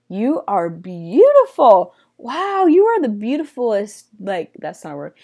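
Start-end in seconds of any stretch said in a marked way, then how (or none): 0.1-4.1 smitten king. Acted. King to the woman he admires, smitten gushing.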